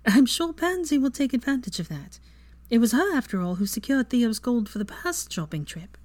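put-on bright young witch, amused; young woman voice. Voicing Hermione.

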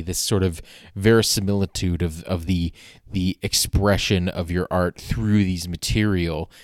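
a hint of a pompous audience member, savouring big words; pretentious art-talk question. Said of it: "say something like".

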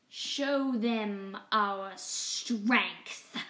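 gloating villain slowly giving the order; grinning command. Acted. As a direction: relish the order with a nasty grin. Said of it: "grinning from ear to nasty ear".

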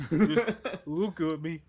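slow, laughing through it. Real, not acted. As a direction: laugh while repeating it. Laughing repeat of quote.

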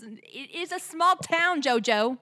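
high, slow, indignant outburst; offended and indignant. Real, not acted. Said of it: "I don't mean to yell at you".

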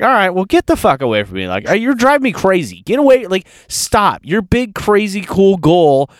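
mock exasperation, telling her off; exasperated rant. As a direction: vent at her like you've lost patience. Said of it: "And I'm like".

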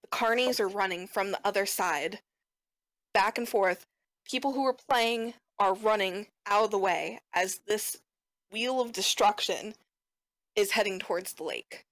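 measured scene-setting with dramatic pauses; game master narration. Acted. Game master tells players of the runaway wheel, measured narration. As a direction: narrate the danger in deliberate phrases.

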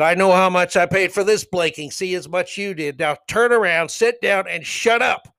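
retold angry comeback. Spectator answering a heckling fan, angry. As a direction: throw it back, then order him down. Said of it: "I couldn't believe I was that angry".

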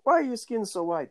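high teasing Jamaican voice; mock Jamaican friend roasting; Jamaican accent. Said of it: "They used to roast the shit out of me".

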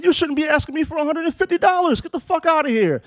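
cussing her out. Retold or imitated. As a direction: tear into her, quick and sharp. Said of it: "I cussed her the fuck out".

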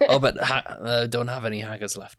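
lightly put-on Scottish accent; a hint of Scots, playing along. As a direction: apologise in a mock Scottish accent. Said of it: "That's a really good Scottish accent".

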